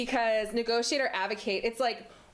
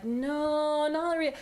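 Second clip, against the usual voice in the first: curt refusal; 6 semitones higher, slower than usual. Retold or imitated. Refusing brother's movie offer.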